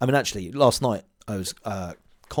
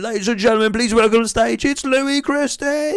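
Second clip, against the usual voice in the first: podium speech; 13 semitones higher, 7 dB louder than usual. Pretend. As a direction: announce him onto the stage. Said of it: "And then".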